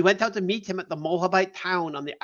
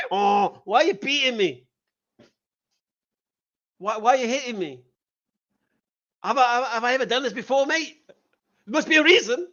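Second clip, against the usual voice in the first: pleading donkey; 5 semitones higher than usual. Retold or imitated. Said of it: "that donkey isn't saying to him".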